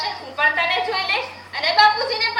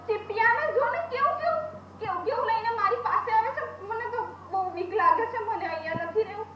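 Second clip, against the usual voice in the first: scared pleading; 5 dB quieter than usual. Acted. Girl calls sedated mother in fear.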